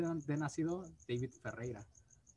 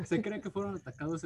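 stifled giggles; 7 semitones higher, 4 dB louder than usual. Real, not acted. No te rías.

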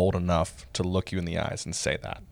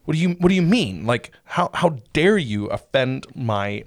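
pitched-up, louder mock outrage at the professor; mock offended outrage; 4 semitones higher, 3 dB louder than usual. Host mimics a student insulted by honest advice, mock outrage. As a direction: play the insulted student, half joking. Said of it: "That seems like".

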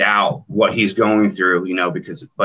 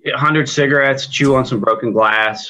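raspy cowboy voice; 6 semitones higher, 5 dB louder than usual. Shown as a demonstration. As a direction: gravelly narrator growl, a bit higher and louder. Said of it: "that cowboy voice".

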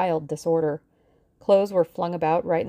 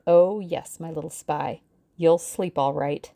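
hideous geniality. Acted. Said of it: "a sort of hideous geniality".

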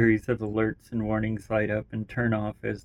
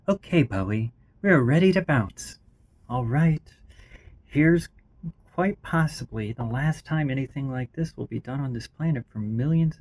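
raised, eager character voice; 4 semitones higher, 4 dB louder than usual. Acted. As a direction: voice the AI keyed up.

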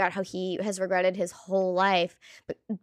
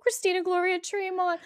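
grand drag name; 10 semitones higher than usual. Pretend.

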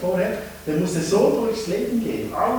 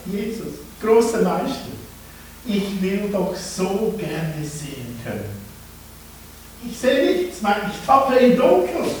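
pleading; 3 semitones higher than usual. Acted. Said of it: "er flehte ihn an".

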